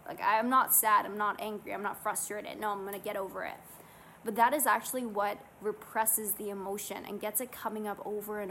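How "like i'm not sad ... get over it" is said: brushing feelings off, quick and loud at first; dismissive denial. Retold or imitated. We talk ourselves out of emotions, mock dismissive denial. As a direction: wave the emotion away, imitating inner voice. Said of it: "We're like".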